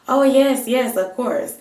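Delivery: high, loud, eager cashier reassurance; mock-eager salon worker smoothing things over. Salon cashier assures the angry customer, high and eager.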